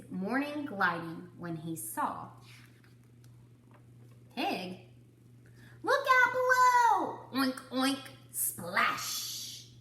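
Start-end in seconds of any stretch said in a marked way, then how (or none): 5.8-9.7 high, loud whooping yell as Pig leaps; gleeful cannonball shout. Acted. Pig jumping into the pond, high loud whoop. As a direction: shout it mid-jump, thrilled.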